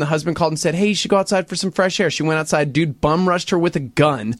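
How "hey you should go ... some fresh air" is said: brisk, fast retelling of a quote; quick recap. Retold or imitated. Husband's call retold as a quick update, hurried. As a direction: rattle it off as a summary.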